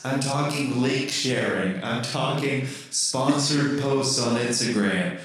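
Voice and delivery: ghost voice. Acted. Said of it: "kind of like a ghostly voice".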